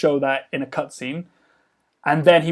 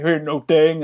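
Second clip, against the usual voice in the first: put-on Hooch's accent; slower than usual. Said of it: "What is that accent?".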